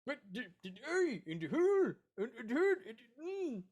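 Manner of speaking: hammed-up halting fright; swooping frightened babble; rattled stammering. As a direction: stumble over the words, rattled. Seahawk stammers about the eye.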